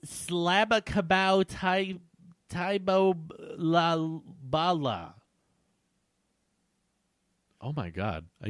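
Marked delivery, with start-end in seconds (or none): 0.1-5.2 silly gibberish voice. Acted. Gibberish laugh-speech.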